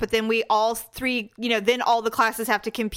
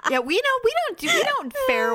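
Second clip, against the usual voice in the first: laughing; faster than usual. Real, not acted. Laughing reply.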